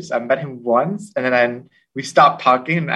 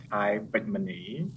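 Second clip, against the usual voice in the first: name said in a Cambodian accent; 12 dB quieter than usual. Shown as a demonstration. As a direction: pronounce the name the native Cambodian way. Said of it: "in a Cambodian accent".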